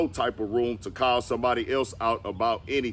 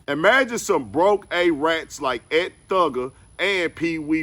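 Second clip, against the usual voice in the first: emphatic, raised-pitch quoting voice; forceful statement read-out; 4 semitones higher, 4 dB louder than usual. Retold or imitated. Reading out a rapper's rebuttal to the rat narrative, forcefully. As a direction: read the rebuttal out higher and louder.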